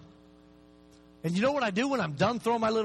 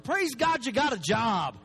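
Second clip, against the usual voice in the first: slow emphatic shout; slower than usual. Acted. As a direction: drag it out and shout it slowly. Preacher's rebuke to complainer.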